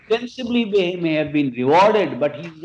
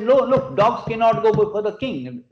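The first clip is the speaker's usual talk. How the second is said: higher-pitched, emphatic refusal; retold objection, turn the petitioner away; firm refusal; 5 semitones higher, 4 dB louder than usual. Lakshmana refuses the dog entry.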